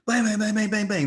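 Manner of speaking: rapid high-pitched bangs; excited comic-book gunfire; imitated gunfire. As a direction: fire off a string of bangs like gunshots.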